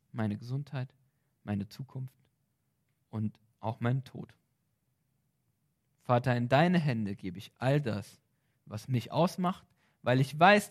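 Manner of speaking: spoken prayer, devoted and sincere; earnest prayer. Acted. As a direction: pray it aloud as an example. Models a surrender prayer. (ernstes, hingebungsvolles Gebet)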